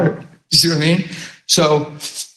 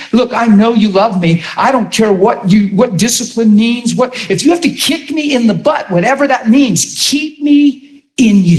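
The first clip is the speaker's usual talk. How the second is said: higher, pleading prayer voice; earnest plea to God; 4 semitones higher than usual. Retold or imitated. Preacher voicing his own prayer, pleading earnestly. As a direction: beg the Lord to keep you close. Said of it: "even asking Holy Spirit".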